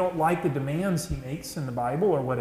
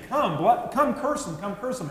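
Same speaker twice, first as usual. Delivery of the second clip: demanding king; 5 semitones higher than usual. Retold or imitated. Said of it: "kept saying".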